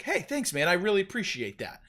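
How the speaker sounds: high, polite athlete thank-you voice; a chipper, gracious pro golfer; Robbie Gould. Retold or imitated. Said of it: "as Robbie Gould would do".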